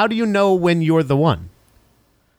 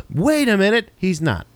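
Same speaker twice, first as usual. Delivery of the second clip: mock realization; 6 semitones higher than usual. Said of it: "And they're like".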